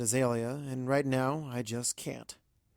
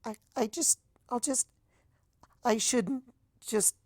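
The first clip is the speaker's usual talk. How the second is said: breathing harder; 10 semitones higher than usual. A narrator's reading. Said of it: "starts to breathe harder".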